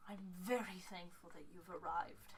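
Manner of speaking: soft, composed fey woman; lightly voiced woman, speaking softly; older fey woman. Fey woman thanking the arrivals, softly voiced. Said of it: "and she goes".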